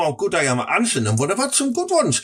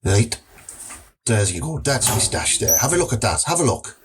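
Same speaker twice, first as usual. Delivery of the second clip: low dodgy dealer; 6 semitones lower than usual. Acted. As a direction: lower it like a shady gym dealer.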